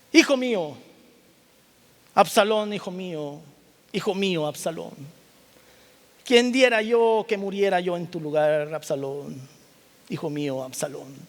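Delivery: lamenting father, rising then fading; grieving cry. Acted. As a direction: cry out for the dead son, then let it sink. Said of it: "y lloró y decía".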